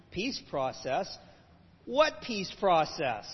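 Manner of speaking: put-on slow, incredulous Jewish accent; a light attempt at a Jewish accent, scoffing. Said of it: "I will try to use my best Jewish accent".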